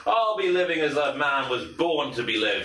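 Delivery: slow, lofty declaration of freedom; proud loner. Acted. Departing hunter proclaiming his freedom, slow and lofty. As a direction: savour each word like a free man. NPC's proud farewell speech.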